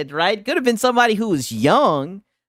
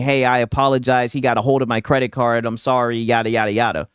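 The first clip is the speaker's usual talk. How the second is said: lower, lightly voiced apology from the dad; apologetic dad; 8 semitones lower than usual. Streamer reads the dad's apology email, lower and mock-earnest. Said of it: "the dad ended up emailing saying".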